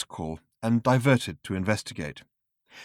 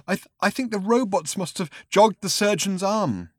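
crying; 9 semitones higher than usual. Acted. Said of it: "He started to cry".

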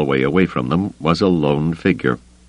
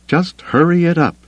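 calling after; 12 semitones higher than usual. Acted. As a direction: call it out after him. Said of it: "she called after him".

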